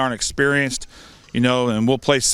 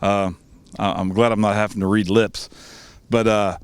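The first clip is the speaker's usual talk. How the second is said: muffled behind a face mask; talking through a cloth mask; 3 semitones lower than usual. Real, not acted. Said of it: "I hope you can hear me through my mask".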